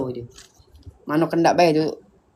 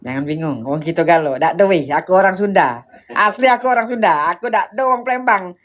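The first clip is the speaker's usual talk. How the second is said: Palembang accent; 2 semitones lower than usual. Shown as a demonstration. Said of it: "Masih kenai dak logat aku?".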